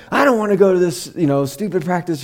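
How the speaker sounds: hammed-up grumpy daughter at breakfast; exaggerated harsh whine. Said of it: "She's not being this harsh".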